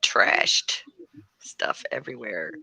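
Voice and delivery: dropping to a whisper. Real, not acted. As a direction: breathe it out in a whisper. Despairing over the messy table.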